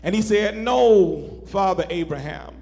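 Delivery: measured, lifted Bible reading voice; solemn sermon scripture reading. Acted. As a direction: read the passage with weight and reverence.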